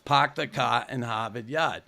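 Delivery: put-on Boston accent with dropped R's; broad Boston "pahk the cah". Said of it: "couldn't understand a fucking word I said".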